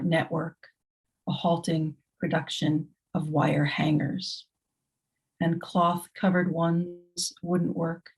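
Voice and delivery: measured, deliberate poetry reading with pauses between lines; poem reading. Acted. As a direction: let each image land in a grave, steady reading.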